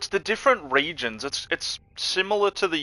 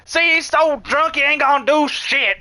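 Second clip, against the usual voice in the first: put-on drunk redneck; 14 semitones higher, 5 dB louder than usual. Moonshine drinker taunting the drunk snake, cackling high hillbilly voice. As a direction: giggle it out like a plastered backwoods moonshiner. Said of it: "he's like".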